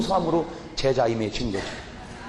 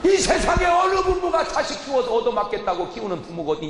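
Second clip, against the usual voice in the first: furious scolding; 11 semitones higher than usual. Acted. Preacher yelling at a son who hits his father, furious.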